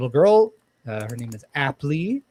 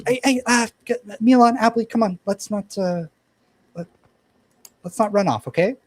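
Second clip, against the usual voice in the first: put-on higher, louder big-sister call to the kids; older sister calling; 8 semitones higher, 6 dB louder than usual. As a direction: round up the little ones, a bit raised. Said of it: "and she goes".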